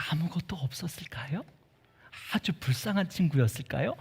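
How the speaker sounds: hushed whispered question. Acted. Pastor asking children, whisper.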